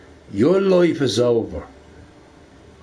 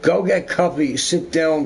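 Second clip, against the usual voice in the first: higher and slower, each word spelled out; slow simple English, higher; 7 semitones higher than usual. Retold or imitated. To the French coworker, slow coaxing simple English. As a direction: coax her gently in simple words. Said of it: "I'm like".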